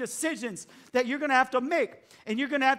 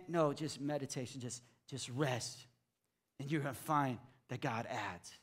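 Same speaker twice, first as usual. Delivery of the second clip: far lower and softer, slowing down; calm invitation; 9 semitones lower, 10 dB quieter than usual. Real, not acted. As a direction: ease them into rest.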